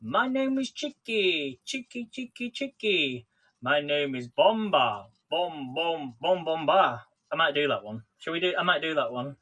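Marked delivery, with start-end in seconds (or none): 0.0-7.1 TikTok voice. Retold or imitated. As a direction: mimic the TikTok chant, drawn out. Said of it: "Have you seen that on TikTok where it goes".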